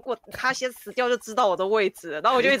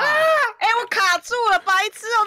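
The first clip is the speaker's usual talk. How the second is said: high-pitched, louder yelp of alarm; flustered outburst; 11 semitones higher, 4 dB louder, slower than usual. Real, not acted. Player stuck in the map, flustered outburst.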